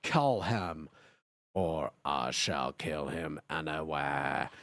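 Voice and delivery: low menacing whisper of a dark lord; lightly voiced raspy villain. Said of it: "said heavily in his raspy voice".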